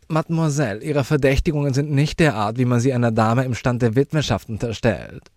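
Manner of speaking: high, loud, indignant lady; affronted widow. Acted. Widow rejecting the child's suspicions, high and affronted. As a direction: protest loudly in a high, dignified voice.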